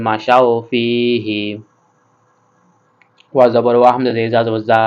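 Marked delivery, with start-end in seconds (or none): 0.1-1.4 slow, drawn-out chanted words; slow recitation. Shown as a demonstration. Teacher asking students to read along, slow chant. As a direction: recite slowly for the class to repeat. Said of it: "আপনারা আমার সাথে সাথে পড়ুন".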